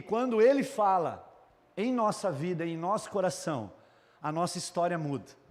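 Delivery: ordinary talk, nothing marked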